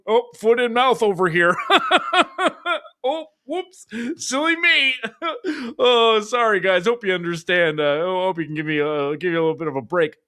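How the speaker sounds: high, laughing mock apology; mock apologetic CEO. Host mocks the CEO saying whoops silly me, high and laughing. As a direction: ham up a silly sorry boss. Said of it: "by going".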